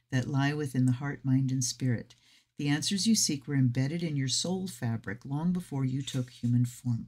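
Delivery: measured guidebook reading; reading aloud. Acted. Tarot reader sharing the deck's introduction, reading aloud. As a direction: read the introduction to listeners evenly.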